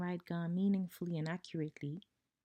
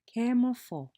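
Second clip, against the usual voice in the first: high, loud call, "Ke mo ga"; lively teacher calling to students; call-and-response teacher call; 6 semitones higher, 6 dB louder than usual. Shown as a demonstration. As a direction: call out the prompt to the class. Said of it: "you say, I say".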